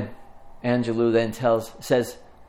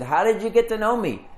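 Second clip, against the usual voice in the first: higher-pitched astonished question; surprised; 8 semitones higher than usual. Retold or imitated. Nathanael answers Jesus on first meeting him, surprised. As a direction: voice lifts in retold surprise. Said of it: "Nathanael is so surprised".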